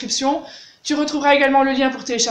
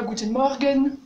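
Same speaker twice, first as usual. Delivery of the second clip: Guten Morgen with a rolled French R; mock French way of saying Guten Morgen; French-accented German; slower than usual. Shown as a demonstration. Teacher showing the wrong, very French Guten Morgen. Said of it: "Très français".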